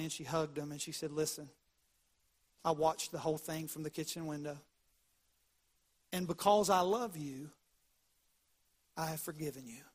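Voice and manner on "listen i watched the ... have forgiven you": soft, low storytelling grandma; tender forgiveness. Retold or imitated. Grandma forgives Johnny after his confession, soft and tender. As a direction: gently let the child off.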